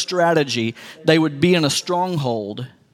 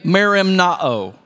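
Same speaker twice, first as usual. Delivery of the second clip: west texas twang; slower than usual. Shown as a demonstration. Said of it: "Say it with me".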